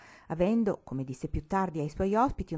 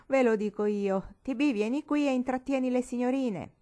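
cackling order; 7 semitones higher, 4 dB louder than usual. A narrator's reading. Old granny cackling and calling T B over, high. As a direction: cackle then call loudly, higher. Old woman laughs and calls boy.

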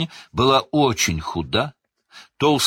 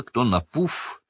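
usual speaking voice

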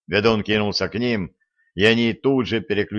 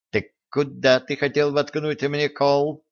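ominous; 6 semitones higher than usual. Acted. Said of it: "зловеще поинтересовалась девушка".

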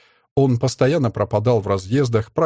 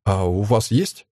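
feigned impatience; 3 semitones lower, slower than usual. A narrator's reading. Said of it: "изображая нетерпение".

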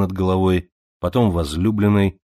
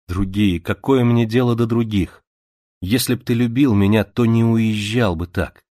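jealous reproach; 3 semitones higher than usual. Acted.

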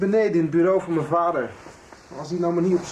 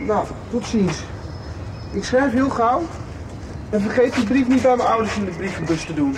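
calling out; 5 semitones higher than usual. Acted. Joris leaving, calling goodbye to his friends, raised voice. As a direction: call back over the distance as you leave.

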